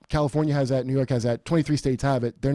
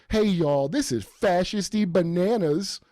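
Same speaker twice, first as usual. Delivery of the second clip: slow, higher mock folksy "y'all"; mocking Joy Reid; 4 semitones higher, slower than usual. Mocking a Harvard graduate's folksy y'all, slow and higher. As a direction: drawl the y'all to mock her. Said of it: "I love the y'all from Harvard graduate".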